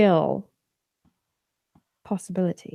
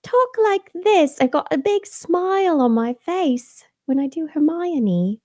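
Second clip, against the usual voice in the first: much higher, beaming schoolgirl voice; Hermione; 10 semitones higher than usual. Shown as a demonstration. Mother demonstrating her reading voice for a character, high and smiley. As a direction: talk through a big smile, pitched high. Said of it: "I do, I have to".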